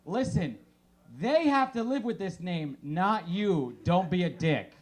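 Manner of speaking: mock firm scolding; scolding advice. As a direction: set the parents straight.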